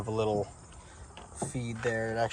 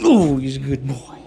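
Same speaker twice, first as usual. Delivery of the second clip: squeaky praising a dog; 3 semitones higher, 9 dB louder than usual. Real, not acted.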